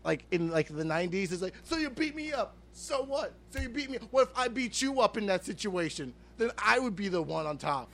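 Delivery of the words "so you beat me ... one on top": much higher, nasal-free squeaky nerd talking to a bully; high mock nerd, easing down at the end. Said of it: "it's like a nerd talking to a bully".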